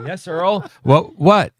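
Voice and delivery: mock innocent. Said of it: "I go".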